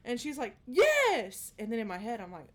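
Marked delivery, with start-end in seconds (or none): 0.7-1.5 put-on high, loud kid yelling yes; high child shout. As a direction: yell it like a little girl. Child voiced in story.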